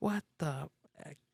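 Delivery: angry, outraged, indignant exclamation. Retelling how the lady in the car reacted: imitating an angry lady. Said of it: "this mad lady as hell. She was like".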